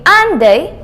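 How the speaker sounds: "aren't they" lifted at the end like a real question; rising intonation. Shown as a demonstration. Teacher repeating the tag for the class, rising intonation. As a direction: let "aren't they" swing up on the last word. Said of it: "So it goes up like this".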